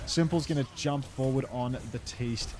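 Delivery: esports play-by-play. Acted. Casts the Overwatch match.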